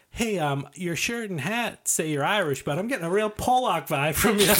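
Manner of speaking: high mocking carny heckle; hammed-up jester taunt; heckling jester. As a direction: roast him like a jester on a stage. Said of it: "He's like".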